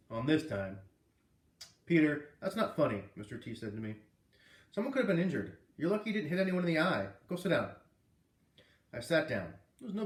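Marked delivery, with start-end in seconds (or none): 1.8-7.7 stern scolding. Acted. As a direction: scold the boy firmly. Teacher scolding student.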